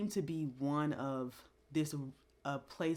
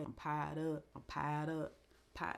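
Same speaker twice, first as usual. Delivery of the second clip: Southern rapper accent; 4 dB quieter than usual. Shown as a demonstration. Vlogger shows off his Southern accent rapper voice. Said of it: "my Southern accent rapper voice".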